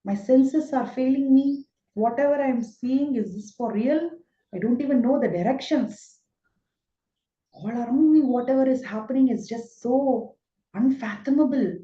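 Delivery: a frightened, confused Arjuna begging God to explain; Arjuna bewildered. Retold or imitated. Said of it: "It is like".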